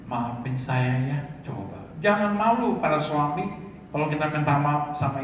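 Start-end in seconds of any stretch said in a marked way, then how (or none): 0.1-1.8 gentle apology. Retold or imitated. Husband apologizing gently to wife.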